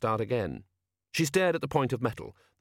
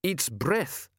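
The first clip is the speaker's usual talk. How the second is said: frightened moaning lookout; 5 semitones higher than usual. Acted. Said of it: "moaned the seaman".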